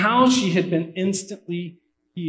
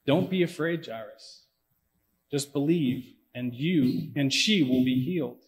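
comforting; 2 semitones lower, 6 dB quieter than usual. Retold or imitated. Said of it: "comforting him".

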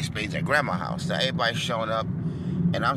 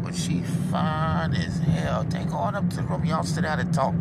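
put-on old man voice; 6 semitones higher, 4 dB louder than usual. Mister Benny approving of the girl, high old voice. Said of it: "He said".

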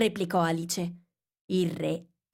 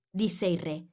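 ordinary delivery, nothing marked

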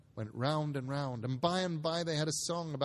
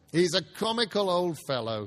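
lightly voiced nephew; 4 semitones higher, 7 dB louder than usual. A narrator's reading. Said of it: "said Scrooge's nephew".

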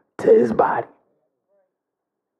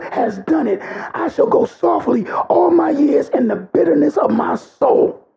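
tearful scripture reading. Acted. Reads Hezekiah's lament, tearful.

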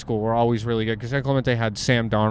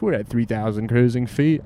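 white pilot voice; 2 semitones lower than usual. Retold or imitated. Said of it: "into the white pilot voice".

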